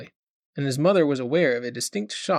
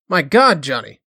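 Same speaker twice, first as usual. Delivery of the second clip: wailing; 9 dB louder than usual. A narrator's reading. Mother wailing at son who swears off work. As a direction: wail it out in shock. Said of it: "she wailed".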